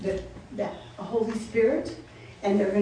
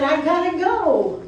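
higher, slower, louder urgent farewell; 6 semitones higher, 5 dB louder, slower than usual. Acted. Jesus voiced telling disciples.

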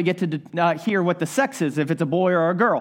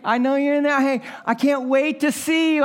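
put-on tender talk to baby; 5 semitones higher than usual. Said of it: "Talk to the baby through the belly button".

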